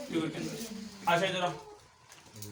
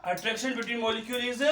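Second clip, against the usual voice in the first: slow dictation; 3 semitones higher, slower than usual. Real, not acted. Dictates sentence to pupils writing.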